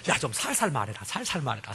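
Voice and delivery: low, hushed mock warning; embarrassed hushing. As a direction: shush a colleague out of embarrassment. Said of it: "창피해서".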